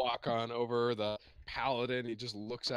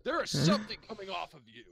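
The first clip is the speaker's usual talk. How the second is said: loud, raised-pitch alarm; alarmed accusation; 6 semitones higher, 6 dB louder than usual. Acted. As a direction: accuse them as if sensing danger. Paladin senses evil on player.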